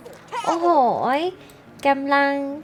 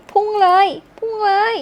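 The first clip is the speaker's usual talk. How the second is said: higher, louder, thrilled chant; excited cheer; 6 semitones higher, 4 dB louder than usual. Acted. Watching the rocket shoot up, excited and higher.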